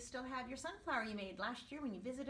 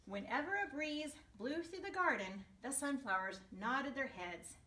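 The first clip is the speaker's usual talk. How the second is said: put-on gentle storybook narration to kids; storyteller voice for young listeners; reading to children. A narrator's reading. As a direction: read it like story time for a class. Reading picture book to class.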